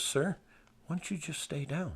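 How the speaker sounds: mock-polite, chuckling as he asks; gentle laughing politeness; polite quote.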